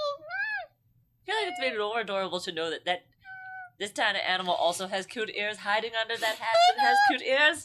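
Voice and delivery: teary with cuteness. Real, not acted. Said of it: "Don't cry".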